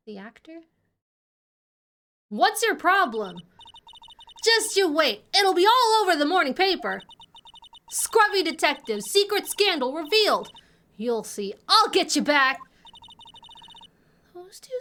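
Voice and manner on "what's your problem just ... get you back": indignant southern twang, lightly played; a feisty southern reporter making threats; southern accent. Reporter threatening a detective with the papers, indignant southern accent. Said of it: "southern accent can only mean".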